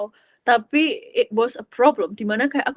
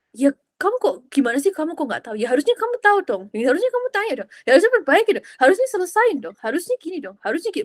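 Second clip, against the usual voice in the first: imitating scolding parents, higher and fast; mock scolding parent voice, higher and quick; nagging parents; 4 semitones higher, faster than usual. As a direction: rattle off the reproaches like a nagging parent.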